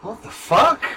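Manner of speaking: high, loud, terrified protest; panicked outburst. Acted. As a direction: yell it in a cornered panic. NPC told he'll be shot.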